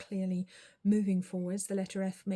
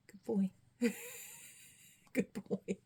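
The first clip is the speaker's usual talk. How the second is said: whispered praise; slower than usual. Real, not acted.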